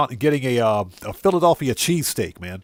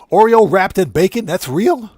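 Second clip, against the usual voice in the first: surprised disbelief; 4 semitones higher, 6 dB louder than usual. Real, not acted. Discovers the food exists.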